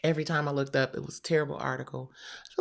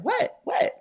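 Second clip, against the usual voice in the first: sharp, high disbelief; mother hearing the news, stunned and high; shocked what; 3 dB louder than usual. Retold or imitated. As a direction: jolt upward in shock. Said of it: "I'm like".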